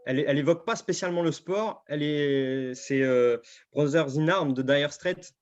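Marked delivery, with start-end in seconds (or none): 3.7-5.3 English title in a French accent, a bit slow. Real, not acted. Guest apologises for his French-accented English title. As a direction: read the song title with a thick French accent. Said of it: "Excusez mon accent anglais".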